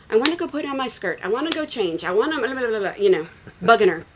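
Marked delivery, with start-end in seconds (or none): 0.1-2.9 imitating a nagging kid, higher and quick; pestering child. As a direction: pester Mom with mock rapid-fire demands. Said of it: "I was bugging her".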